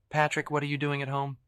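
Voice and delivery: Evelyn voice. A narrator's reading. Evelyn's voice on phone.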